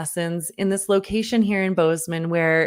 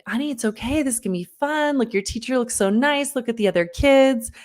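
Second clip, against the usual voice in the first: put-on higher, sing-song reassurance to a scared child; sweet coaxing; 4 semitones higher than usual. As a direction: coax him gently toward the lesson. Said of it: "I sort of start bouncing between".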